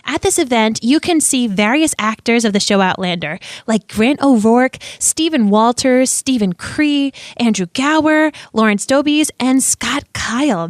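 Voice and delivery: upbeat podcast ad read; measured, announcer-like promotional read; sponsor read. Real, not acted. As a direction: read out the sponsor message, stressing names and details. Reads the sponsor message.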